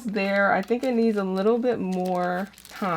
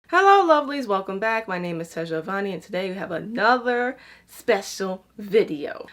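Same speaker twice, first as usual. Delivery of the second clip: put-on British accent. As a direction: greet viewers in a playful mock British accent. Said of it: "I said that in a British accent".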